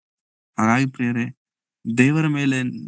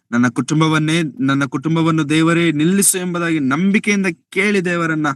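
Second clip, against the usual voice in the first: raised, insistent pleading to God; fervent prayer; 6 semitones higher than usual. Acted. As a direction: plead with rising pitch, as a preacher urging prayer. Models insistent prayer, urging congregation. (ಏರು ದನಿಯಲ್ಲಿ ಆಗ್ರಹದ ಪ್ರಾರ್ಥನೆ)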